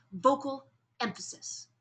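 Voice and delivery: airy push on "vocal emphasis". Shown as a demonstration. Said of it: "a little bit of more air behind it".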